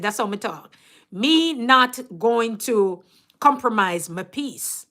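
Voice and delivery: deliberate Jamaican Patois; measured Jamaican-accented declaration. Real, not acted. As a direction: speak it in your own Jamaican accent. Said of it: "my Jamaican accent".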